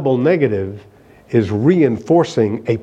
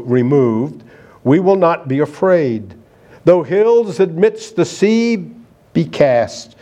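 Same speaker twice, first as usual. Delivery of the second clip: measured, solemn reading of the psalm verse; psalm recitation. Acted. Preacher reciting the Scottish psalm to the congregation, solemn and measured. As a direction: recite it like an old hymn text.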